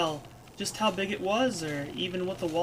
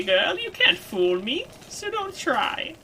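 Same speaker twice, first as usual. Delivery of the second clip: slow crone's warning; sudden steeliness; 9 semitones higher, 5 dB louder, slower than usual. Acted. Crone seeing through Kid's lie, suddenly steely. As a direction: drop the joking and warn with a steely edge. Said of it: "I sensed a sudden steeliness in her voice".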